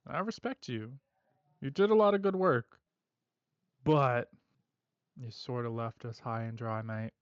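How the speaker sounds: lightly voiced Australian-ish heavy; calm threat with a hint of northern twang; collector's accent. Collector offering Pele a final job, lightly accented calm menace. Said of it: "I like his accent".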